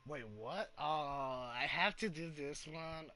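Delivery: slow, drawn-out disbelief; dismayed surprise. Real, not acted. Gamer discovering an unwanted quest, slow dismayed disbelief. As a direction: stretch it out like you can't believe it.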